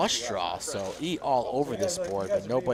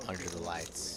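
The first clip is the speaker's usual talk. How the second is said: hushed, much softer and lower; subdued; 7 semitones lower, 12 dB quieter than usual. Shown as a demonstration. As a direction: say it quietly, held back. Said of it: "It's kind of a subdued".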